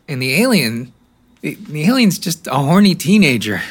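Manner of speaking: exasperated. Acted. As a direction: let the frustration burst out on the alien.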